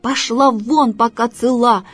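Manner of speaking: mild angry yell. Acted. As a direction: send her off gruffly. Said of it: "закричал на неё кот Васька".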